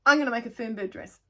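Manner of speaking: loud, high triumphant call; delighted declaration; excited. Real, not acted. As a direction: slam it down like an auction win. Decides to make the dress.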